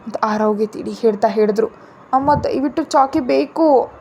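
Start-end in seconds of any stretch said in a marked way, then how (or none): 2.1-3.9 put-on slow pouting child begging; a mild whiny please; sulky plea. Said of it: "ಮುಖ ಸಣ್ಣದ್ ಮಾಡ್ಕೊಂಡು ಹೇಳ್ದಾಗ".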